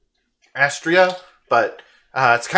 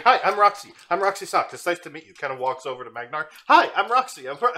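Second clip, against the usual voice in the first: put-on excitable cat girl voice; 3 semitones higher, 3 dB quieter than usual. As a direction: gush like a hyperactive kitten meeting new friends.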